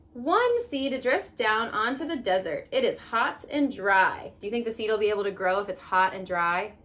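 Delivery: gentle storybook read-aloud; reading to children. Acted. Mom reading The Tiny Seed to her kids, storybook voice.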